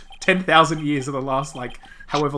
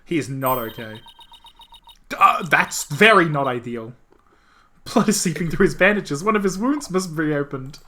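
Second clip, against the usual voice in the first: higher, anxious heroine voice; distressed heroine; 5 semitones higher, 4 dB louder than usual. Acted. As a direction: panic over his bleeding wounds. Character panics over wounds.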